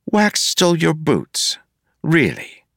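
can't believe it, draw it out; incredulous. A narrator's reading. Marcy asking Wayne in disbelief about the boots.

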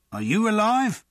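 high, astonished question; wonderment. Acted. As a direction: ask in disbelief. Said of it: "in tones of wonderment".

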